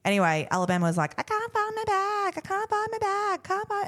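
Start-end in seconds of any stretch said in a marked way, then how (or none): 1.2-3.9 put-on whiny little girl. Mother mimics her daughter who lost her school bag, high whiny kid voice.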